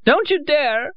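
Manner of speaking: outraged, loud protest; high angry cry. A narrator's reading. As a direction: warn him off. Dragged toward the door.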